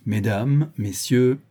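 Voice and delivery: measured lecturer's opening; composed voice. A narrator's reading. Don Luis opens his mock lecture, composed voice. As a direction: address the audience with composure. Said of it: "d'une voix posée".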